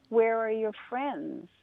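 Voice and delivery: very slow, unbothered turtle; drawn-out and content, in no hurry; slow calm turtle. Acted. Turtle turning down Rabbit, very slow and calm.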